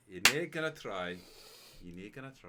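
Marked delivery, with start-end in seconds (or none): 0.1-1.2 laughing at the refusal. Real, not acted. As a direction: say it through a laugh.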